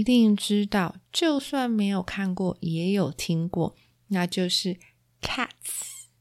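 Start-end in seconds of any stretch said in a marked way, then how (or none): 5.2-6.1 title reveal, swooping high; dramatic reveal. Acted. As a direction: announce the name like a marquee. Announcing the musical's title.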